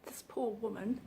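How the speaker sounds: barely audible, voice catching on the words; fighting back tears, very soft; choked up. Real, not acted. Vlogger telling a viewer about a dying woman, choking up. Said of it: "I wasn't intending on getting emotional".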